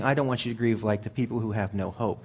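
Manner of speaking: the right reading, carried to no hope; correct reading. Shown as a demonstration. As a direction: stress on DON'T and the full line to no hope. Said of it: "He's saying".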